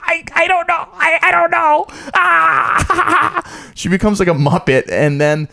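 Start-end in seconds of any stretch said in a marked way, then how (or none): 0.0-3.7 much higher, laughing flustered squeak; flustered mom. Retold or imitated. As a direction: mom stunned and giggling on the spot. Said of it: "She's just sort of like".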